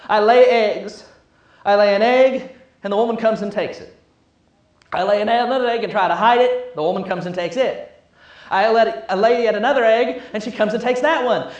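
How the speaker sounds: complaining chicken. Acted. Preacher voices the chicken griping to the cow, lightly voiced and rushed. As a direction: rattle off the grievance like a fed-up hen.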